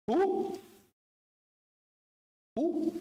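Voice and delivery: high, soft prompting who; high questioning call to the hall; call-and-response prompt. Real, not acted. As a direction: coax the crowd to answer. Calling out to congregation.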